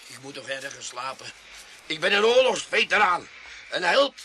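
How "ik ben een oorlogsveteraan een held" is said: louder, proud protest; indignant boast. Acted. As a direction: puff himself up as a hero.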